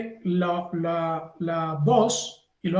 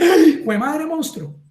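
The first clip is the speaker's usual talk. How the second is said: slow, louder mock yelp at a monster; mock startled cry; 6 semitones higher, 5 dB louder, slower than usual. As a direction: play a startled visitor, half laughing. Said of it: "el cerebro emocional reacciona y dice". (grito de susto fingido, lento y más fuerte)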